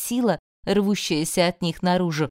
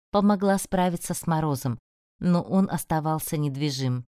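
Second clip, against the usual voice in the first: usual speaking voice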